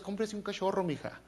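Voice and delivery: soft, drily mocking reply; understated deadpan advice; preacher lightly voicing a wry answer to a pray-er; teasing retort. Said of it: "le diría a Dios".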